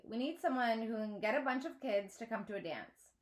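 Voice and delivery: lightly voiced boy Arthur; a touch of a helpful classmate; Arthur's voice.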